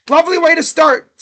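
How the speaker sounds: high-pitched mock-cheery sarcasm on "Lovely way to start"; mock-delighted, high on "Lovely way to start"; sarcastic praise. Real, not acted. Sarcasm after first-pitch pop-up.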